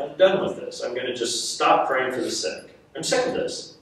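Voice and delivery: fed-up mutter. Retold or imitated. Inner vow, fed up.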